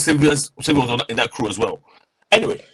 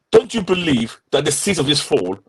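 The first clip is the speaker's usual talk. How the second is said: choppy, cutting-out audio; broken-up call connection; corrupted glitchy audio. Real, not acted. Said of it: "Sorry, your audio is cutting out a bit".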